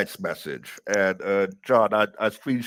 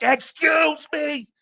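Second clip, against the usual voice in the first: "Excuse me!" yelled high and slow, drawn out; shout; 4 dB louder, much slower than usual. Retold or imitated. Busboy yelling at a server blocking the kitchen, loud slow shout. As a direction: belt "Excuse me!" across the kitchen, dragging it out. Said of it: "I, I, I shout".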